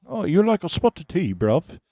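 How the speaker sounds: high, loud caricature of British speech; mock British accent. Streamer parodying British viewers over tea, mock British accent. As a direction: squawk it out in exaggerated British. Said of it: "you guys say, like, bruv".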